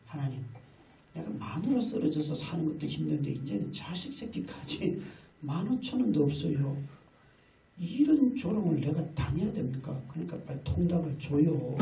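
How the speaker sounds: soft, muttered complaint to God; silent grumbling prayer. Retold or imitated. Father complaining to God inside, softly. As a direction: grumble the prayer under your breath. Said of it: "이렇게 속으로 기도하고".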